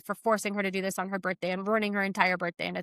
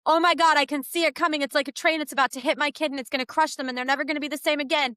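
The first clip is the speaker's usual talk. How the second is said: hammed-up parent dreading the crash; mock panic; 4 semitones higher, faster than usual. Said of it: "and you're like".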